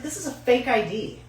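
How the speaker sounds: high put-on scolding; incredulous accusation. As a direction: call out the fake in mock disbelief. Cashier confronts fake ID.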